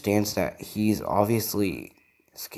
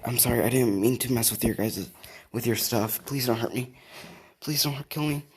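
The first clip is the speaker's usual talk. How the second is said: softer, rising plea, mildly scared; frightened pleading; 3 semitones higher, 3 dB quieter than usual. Acted. Boy apologizes and begs the alien for his life, mildly frightened.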